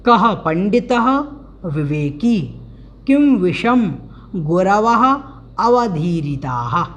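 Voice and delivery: measured, word-by-word Sanskrit reading; lightly intoned prose-order recitation; slow recitation. Acted. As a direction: read each word slowly and deliberately.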